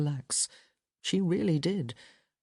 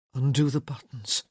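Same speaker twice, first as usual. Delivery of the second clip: low, curt grunt of a request; 3 semitones lower than usual. A narrator's reading. Man answering his teasing lover, grunted. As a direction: grunt it, barely holding back. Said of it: "he grunted".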